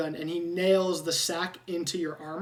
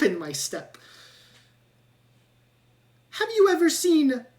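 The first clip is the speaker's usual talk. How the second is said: high, louder rat voice full of pep; perky rat; 7 semitones higher, 5 dB louder than usual. Acted. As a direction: show off your eagerness to tag along. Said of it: "he goes".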